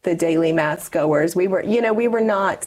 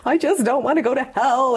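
retold sobbing plea; 6 semitones higher than usual. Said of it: "sobbing in our bathroom".

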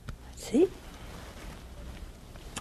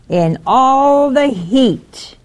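mock complaint; 4 semitones higher, 3 dB louder, much slower than usual. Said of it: "here it comes".

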